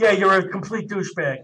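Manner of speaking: laughing mock insult; affectionate teasing jab; loving exasperation. Real, not acted. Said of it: "He said lovingly".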